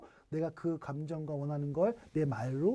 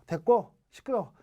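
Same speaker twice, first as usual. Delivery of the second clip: dismissive cutoff. Retold or imitated. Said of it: "한 방에 딱 자르기예요".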